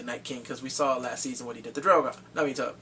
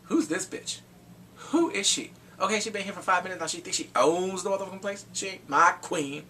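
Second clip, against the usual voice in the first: mock Lyanna; 5 semitones higher, 3 dB louder than usual. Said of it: "was looking at her like".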